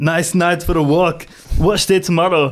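action-movie cyborg voice. Doing a requested line from a film: Terminator voice. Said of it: "Just do it in Terminator voice anyway".

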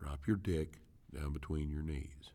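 whispering. An instructor repeats a cue for the males, whispering it. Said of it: "I'm going to whisper this".

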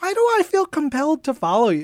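strange creature voice, pitched way up.

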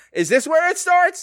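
high, wide-swinging, clueless fan voice.

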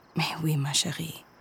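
speaking softly. Delphine answers Cosima's complaint about science, soft. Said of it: "she answered softly".

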